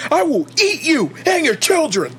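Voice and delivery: high ranting conspiracy host; hammed-up unhinged radio rant; Alex Jones. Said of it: "go all Alex Jones on us".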